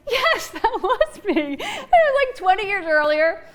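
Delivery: slow, laughing admission. Retold or imitated. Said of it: "And we laughed".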